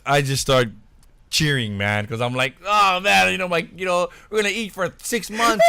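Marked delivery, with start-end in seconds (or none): 2.7-5.6 boasting. Retold or imitated. Celebrating his commission to himself, high and gleeful. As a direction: crow about the big payday. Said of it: "boasting about it".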